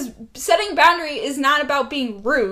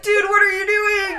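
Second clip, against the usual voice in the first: milder yell; 8 semitones higher than usual. Retold or imitated. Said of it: "I'm sorry, I'm screaming".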